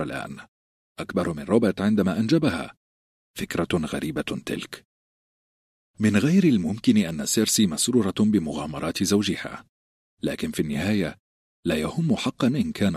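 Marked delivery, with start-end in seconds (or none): none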